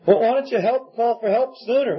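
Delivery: put-on mildly exasperated parent asking a child; lightly voiced parent. Parent questioning rescued child, acted out.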